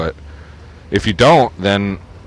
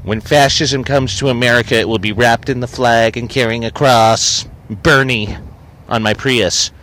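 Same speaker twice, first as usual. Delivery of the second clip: mock bumper-sticker lady. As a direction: mimic the woman with the sticker. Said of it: "That's her bumper sticker".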